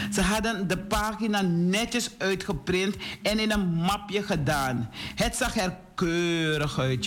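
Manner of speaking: put-on storytelling to children. A narrator's reading. Telling boys and girls about Hans and his friend, animated storytelling. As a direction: read it out clearly for young listeners.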